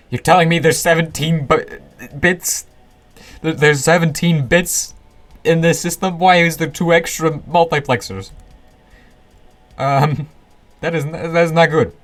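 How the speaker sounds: high, incredulous, can't believe it; real shock at the mistake; surprised disbelief. Real, not acted. Finds an extra bit, disbelief.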